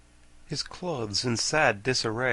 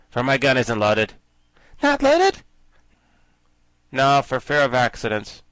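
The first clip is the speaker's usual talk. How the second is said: bumbling soldier; 8 dB louder than usual. A narrator's reading. Soldier answers the girls.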